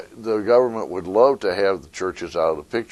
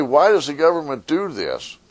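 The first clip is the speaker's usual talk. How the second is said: complaining citizen; 3 semitones higher than usual. Retold or imitated. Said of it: "So when you say".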